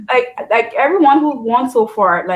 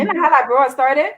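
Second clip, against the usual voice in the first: lightly sarcastic question; 3 semitones higher than usual. Real, not acted. Cohost feigning doubt about how Liberia started, sarcastic. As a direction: ask as if you didn't know. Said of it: "I'm just being sarcastic".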